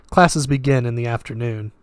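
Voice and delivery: put-on flat, lightly Russian-accented voice; detached, with a hint of Russian; slight Russian accent. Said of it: "slight Russian accent".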